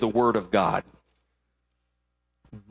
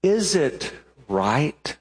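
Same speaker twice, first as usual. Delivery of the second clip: earnest question; much slower than usual. Acted. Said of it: "It could have been".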